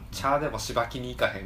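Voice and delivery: casual Kansai-dialect invitation. Shown as a demonstration. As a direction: say it like a relaxed Osaka local. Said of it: "関西弁で言うと".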